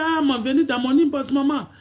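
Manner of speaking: high, insistent imitation of fans calling maman; lightly voiced whiny fans; mock pleading fans. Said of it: "Quand c'est pour venir dire".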